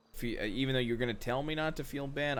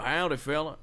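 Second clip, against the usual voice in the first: louder cowboy howdy in an American accent; 3 semitones higher, 6 dB louder than usual. Shown as a demonstration. Showing a friend how Americans talk, cowboy accent. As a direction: throw out a Southern howdy. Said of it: "Wouldn't it be more like".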